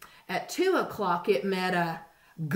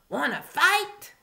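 high, slow squeaky dare; grouchy ladybug; 9 semitones higher, 7 dB louder than usual. A narrator's reading. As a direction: challenge them in a tiny high voice. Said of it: "said the grouchy ladybug".

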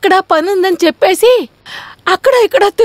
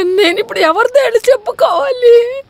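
crying. Acted. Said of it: "ఎందుకే ఇప్పుడు ఏడుస్తున్నావు?".

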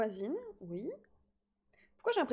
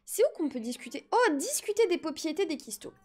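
put-on baby voice; 2 semitones higher than usual. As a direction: talk like a little toddler. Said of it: "mon gage, c'est de faire une voix de bébé".

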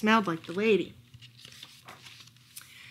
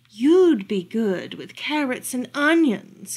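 muttered; 2 semitones higher, 5 dB louder, slower than usual. Acted. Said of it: "he muttered".

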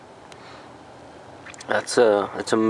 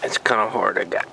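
talking around a flashlight held in the teeth; muffled, mouth propped open by a flashlight. Real, not acted. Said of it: "flashlight in my mouth".

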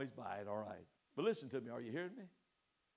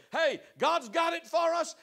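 bold Joshua; 9 semitones higher, 8 dB louder, slower than usual. Acted. Joshua voiced in the story.

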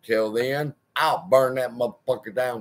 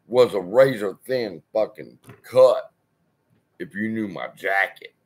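tough threat; 3 semitones lower than usual. Retold or imitated. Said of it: "what C S I does when he feels abused".

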